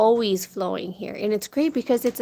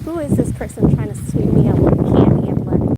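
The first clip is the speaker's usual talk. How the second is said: put-on indignant kid voice; 8 dB louder than usual.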